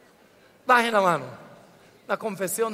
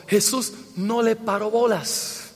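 un poquito jocoso. Real, not acted. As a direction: toss it off as a mild joke. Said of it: "Lo decimos así un poquito jocoso". (tono levemente jocoso)

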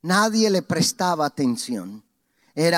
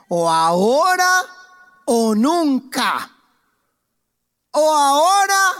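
high, loud desperate cry; urgent cry; 10 semitones higher, 6 dB louder than usual. Acted. Blind man resolving aloud, crying out loud. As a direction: throw it out like a last chance. Bartimeo's resolve, preacher acting.

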